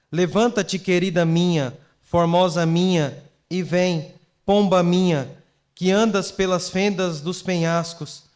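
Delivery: measured Bible reading with deliberate pauses; scripture reading. Acted. Pastor continues reading the beloved's words to the church, measured scripture reading. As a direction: recite the verses in a projected reading voice. Reads scripture aloud to congregation.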